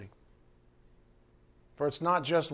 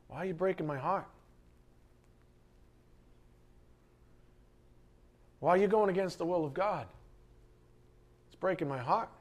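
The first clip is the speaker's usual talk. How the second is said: softer, pleading, heartbroken; hushed lament; 6 dB quieter, faster than usual. Acted. Pastor voicing his lament to the flock, hushed and pleading. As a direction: murmur it like a hurting shepherd.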